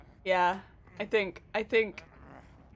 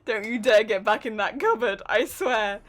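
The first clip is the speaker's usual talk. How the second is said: scolding; 3 semitones lower, 5 dB louder than usual. Real, not acted. Scolding teammate hiding.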